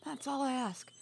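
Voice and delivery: loud, high and angry, hitting ONE and TASK; angry scolding. Acted. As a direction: chew her out for botching one simple job. Angry sister scolding for failed task.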